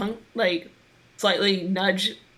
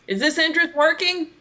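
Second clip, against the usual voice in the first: high playful voice; 9 semitones higher, 4 dB louder than usual. Acted. Player voices Mikage's greeting.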